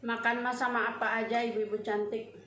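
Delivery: chewing between words; eating while talking; mouth full, chewing. Real, not acted. Seen 0: Cheeks and lips show chewing between words while eating rice.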